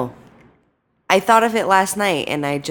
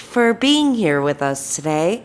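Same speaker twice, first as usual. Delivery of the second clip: exaggerated cartoon intonation; 5 semitones higher, slower than usual. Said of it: "Why are you talking like that?".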